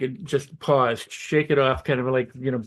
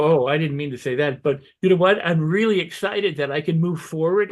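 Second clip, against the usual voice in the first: mildly excited; 2 semitones higher than usual. Pretend. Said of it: "emphasize the good feelings".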